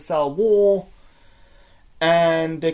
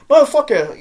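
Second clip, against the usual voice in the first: higher and louder, real anger bursting out; outraged curse; 9 semitones higher, 7 dB louder than usual. Real, not acted. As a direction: spit it out in real disgust. Outraged at the on-screen hanging.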